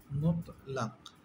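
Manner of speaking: মুতলাক said slowly and clearly; slow term. Shown as a demonstration. Teacher naming the stop sign for students. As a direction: spell out মুতলাক carefully. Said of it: "এটারে বলা হয় ওয়াকফে".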